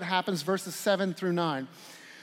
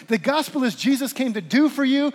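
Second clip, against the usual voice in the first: preaching shout; 5 semitones higher, 6 dB louder than usual. Real, not acted. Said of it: "preaching climax".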